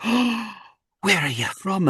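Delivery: high, curious Scottish mum; Missus Butler. Retold or imitated. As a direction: ask it as a wee Scottish lady. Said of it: "tiny little Missus Doubtfire, basically".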